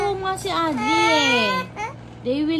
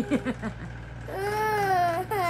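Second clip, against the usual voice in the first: high, soft wail; crying; 6 semitones higher, 8 dB quieter than usual. Real, not acted. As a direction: wail on in protest. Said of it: "stop crying na".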